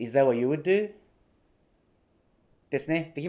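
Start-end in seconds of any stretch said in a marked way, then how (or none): 0.0-0.9 "Is that what you would do" run quickly together; fast talk. Shown as a demonstration. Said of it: "早口で言ってみましょ".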